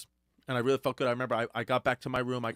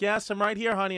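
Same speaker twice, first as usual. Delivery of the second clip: lightly voiced mother, higher and louder; imitating his mom; 8 semitones higher, 5 dB louder than usual. Mom answers her scared son, lightly imitated. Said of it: "then she'd be like".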